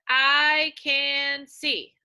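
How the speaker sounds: very slow, loud I can see; slow choral read. Shown as a demonstration. Teacher leading the class in reading, very slowly and loudly. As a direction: say each word slowly and clearly for the class. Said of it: "let's say it together".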